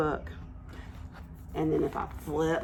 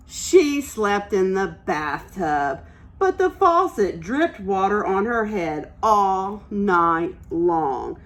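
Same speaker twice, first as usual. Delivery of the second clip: picture book read-aloud; reading to children. Acted. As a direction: read it like story time for little ones. Teacher reads picture book aloud.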